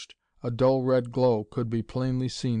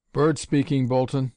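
brisk, louder eager answer on the phone; eager cry; 2 semitones higher, 4 dB louder than usual. Acted. Doctor answering Bolton's phone call, eager and loud. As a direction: call it out keenly. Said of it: "he cried".

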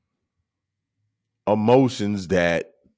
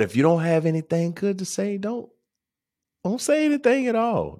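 mom's saying; 11 semitones higher, faster than usual. Retold or imitated. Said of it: "My mom".

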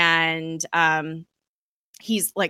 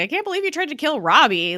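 higher, louder mock outrage; indignant scolding; 9 semitones higher, 4 dB louder than usual. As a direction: scold him in disbelief. Coulson scolding Eli.

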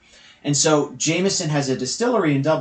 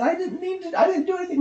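put-on upset old man; 4 dB quieter, faster than usual. First old man near tears.

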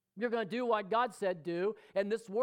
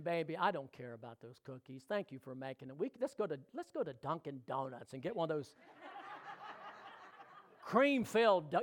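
tender to his wife. Retold or imitated. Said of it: "But I'm saying".

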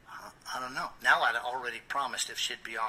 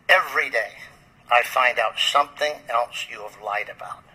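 retold scolding, louder, leaning hard on the opening words; stern confrontation; 6 dB louder than usual. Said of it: "I didn't have my happy face on".

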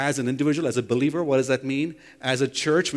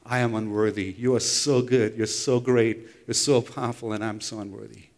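humble prayer; 4 semitones lower than usual. Retold or imitated. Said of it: "on your face, saying".

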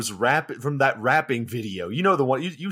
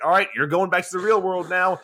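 higher, louder, breezy king tossing someone away; hammed-up king flinging Bruce Lee; mock king; 6 semitones higher, 5 dB louder than usual. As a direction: send him off with a cheerful shout. Voicing the king throwing Bruce Lee.

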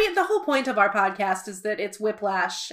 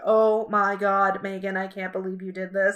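embarrassed; 2 semitones lower than usual. Retold or imitated. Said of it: "You were embarrassed".

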